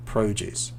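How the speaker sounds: "produce" with a lengthened O, stress on PRO; long O produce. Shown as a demonstration. Teacher repeating noun "produce" softly with long O. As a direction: stretch the O in "produce". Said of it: "So the O sounds a little bit longer".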